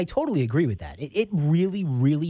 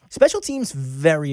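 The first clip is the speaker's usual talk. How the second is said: emphatic; 4 dB louder, slower than usual. Real, not acted. Host pivots to new topic emphatically.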